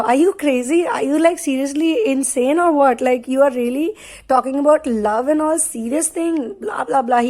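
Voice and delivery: mock someone as if they're being ridiculous. Masculine laughing off her talk of love, mildly mocking. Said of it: "He goes like that. He mocks her".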